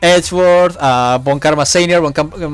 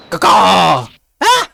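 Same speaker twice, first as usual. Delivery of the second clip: crow caw; 4 semitones higher, 3 dB louder, much slower than usual. Acted. Yokai mayor crowing like crow.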